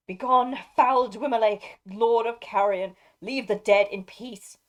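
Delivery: loud, cold command to the wraith. Acted. Dernhelm commanding the Nazgul to leave, in a cold ringing voice. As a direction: order the foul lord away like steel. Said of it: "a cold voice answered".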